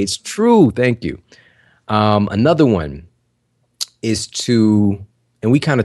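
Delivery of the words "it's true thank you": confident affirmation. Shown as a demonstration.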